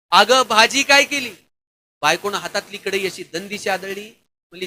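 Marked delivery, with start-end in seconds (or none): 0.1-1.3 mock yell, slower and drawn out; yelling in her ear. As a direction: yell the question slowly right into her ear. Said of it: "जोरात कानात ओरडला".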